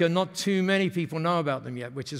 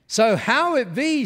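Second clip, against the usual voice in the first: high, slow, loud Japanese-English imitation; Masami's Japanese-accented English; 7 semitones higher, 5 dB louder, slower than usual. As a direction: pitch an idea in imitated Japanese broken English. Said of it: "when they speak like that".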